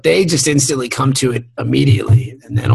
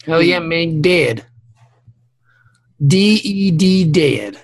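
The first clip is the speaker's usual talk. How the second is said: redneck guy. Acted. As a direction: relish it like a mock redneck. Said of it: "the redneck guy".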